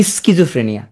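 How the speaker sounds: স্কিজোফ্রেনিয়া sounded as is-ki-jo-fre-ni-a; spelling pronunciation. Shown as a demonstration. Teacher fixing a spelling in memory, spelled-out pronunciation of স্কিজোফ্রেনিয়া. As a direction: say স্কিজোফ্রেনিয়া with every written sound, hard sk. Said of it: "তাহলে উচ্চারণ করবা কিভাবে?".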